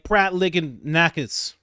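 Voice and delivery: Pratt Lickin' Nakis said slowly, mangled as one silly word; deliberately mangled name. Shown as a demonstration. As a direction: drag out Pratt Lickin' Nakis, wrong on purpose. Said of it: "I intentionally say them wrong".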